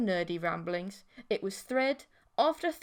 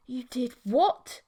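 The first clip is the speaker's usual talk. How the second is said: shocked; 2 semitones higher, 7 dB louder, slower than usual. Acted. Shocked reply.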